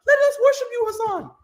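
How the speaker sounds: high mock falsetto, adoring; worshipping fan girls. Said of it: "All these girls are just like".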